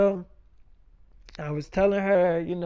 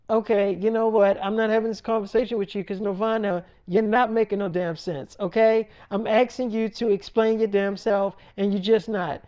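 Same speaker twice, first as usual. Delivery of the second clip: higher, fed-up telling-off; acted exasperation; 4 semitones higher, 4 dB louder than usual. Mother demanding an explanation, acted exasperated scolding. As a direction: play a mother who has had enough.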